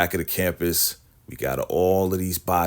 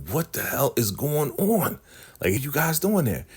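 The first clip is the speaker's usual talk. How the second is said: retold indignation; 7 semitones higher than usual. Daikon demands to know what is going on, mock-indignant. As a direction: imitate someone pissed off, pitched well up. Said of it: "Daikon is so pissed off".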